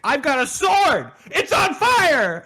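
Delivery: hammed-up, high, slow battle cry; mock triumphant yell. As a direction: bellow it like a delighted kid with a toy. Gilliman boasting in battle.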